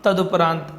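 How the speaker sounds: तदुपरांत said with a short u after द, "tad-u-paraant"; correct form. Shown as a demonstration. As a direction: stress the short उ in तदुपरांत, not ओ. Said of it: "छोटे ऊ की मात्रा आती है". (तदुपरांत में छोटा उ साफ़ बोलें)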